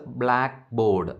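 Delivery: "ബ്ലാക്ക് ബോർഡ്" with the weight on "ബ്ലാക്ക്"; primary stress first. Shown as a demonstration. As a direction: hit "ബ്ലാക്ക്", let "ബോർഡ്" fall away. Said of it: "primary stress".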